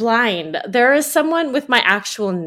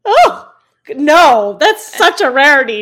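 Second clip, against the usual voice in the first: sarcastic; 3 semitones higher, 6 dB louder than usual. Real, not acted. Sarcastic reply about Indians liking music.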